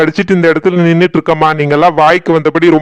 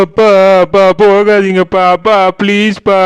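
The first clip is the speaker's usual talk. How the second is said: tearful pleading calls; crying for father; 2 semitones higher than usual. Acted. Daughter tearfully begging father not to go, crying. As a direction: beg him to stay, crying. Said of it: "நீயே அழுதுட்டு இருக்க".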